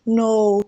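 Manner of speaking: "No" with a falling, unexcited tone. Shown as a demonstration. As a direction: let "No" drop, as if not excited. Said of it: "Your tone should be falling".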